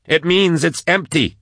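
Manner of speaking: high, drawn-out answer under pressure; urgent reply. A narrator's reading. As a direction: answer urgently, stretching the words. Urgent reply in mid-chase.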